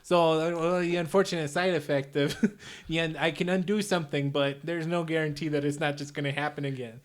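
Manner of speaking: put-on light Chicago accent in character; villain with a mild Chicago accent. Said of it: "I'm doing the Undoer voice here".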